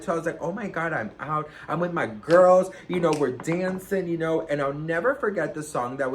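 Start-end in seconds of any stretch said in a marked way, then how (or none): 0.4-4.5 lively, cocky retelling of herself. Retold or imitated. Storyteller imitates own night out with the girls, cocky. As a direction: play up showing off on a night out. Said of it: "I was so cocky about it".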